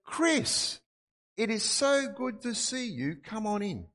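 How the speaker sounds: high, delighted royal welcome, a bit slow; a lightly voiced prince greeting an old friend warmly; Prince William greeting. Prince William welcomes Chris at the palace door, high and delighted. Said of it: "And he goes".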